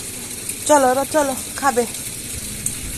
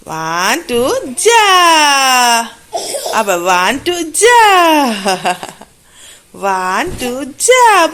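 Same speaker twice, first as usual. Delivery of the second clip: 1 playful count; 3 dB louder, slower than usual. Real, not acted. Counting a game with baby.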